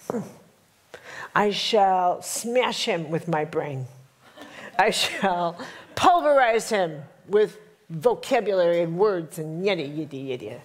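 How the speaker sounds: hammed-up highbrow plotting; mock intellectual. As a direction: play the smug intellectual plotting a verbal knockout. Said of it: "so Carolyn the intellectual thinks".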